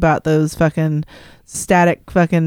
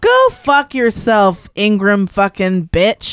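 slow cursing; 2 semitones higher, slower than usual. Real, not acted. Cohost cursing slowly at the pundit on screen, angry. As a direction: spit it out slowly at her.

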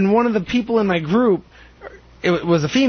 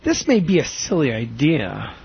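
timid phrase; 4 semitones lower than usual. Retold or imitated. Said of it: "with a forward slash".

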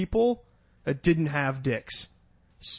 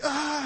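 high, soft mock wail; pained cry; 11 semitones higher, 5 dB quieter than usual. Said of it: "what are you crying for".

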